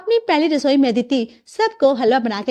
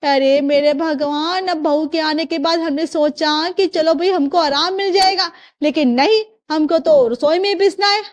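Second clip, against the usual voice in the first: aggrieved, insistent complaining; exasperated martyr's grumbling; annoyed mother-in-law; 3 semitones higher than usual. Acted. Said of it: "आप इतनी नाराज क्यों हो रही है".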